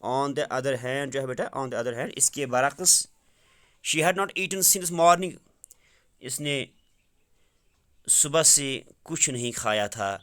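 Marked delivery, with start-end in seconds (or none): 3.9-5.3 slow and a little higher, word by word; slow, raised reading. Shown as a demonstration. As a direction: read it slowly for the students. Teacher rereads the English line. (آہستہ اور اونچی آواز میں پڑھنا)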